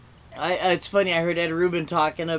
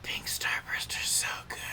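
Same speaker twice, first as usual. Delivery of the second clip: soft unvoiced whisper; creepy whisper; 12 dB quieter than usual. Shown as a demonstration. Contrasting the yelled line with a whisper, creepy whisper. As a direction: whisper the candy praise eerily. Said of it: "But if I whispered that".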